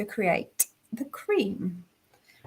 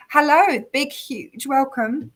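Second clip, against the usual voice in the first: hoarse, strained voice; losing voice; 5 semitones higher, 4 dB louder, slower than usual. Real, not acted. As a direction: talk through a failing voice. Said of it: "Sorry, I'm losing my voice".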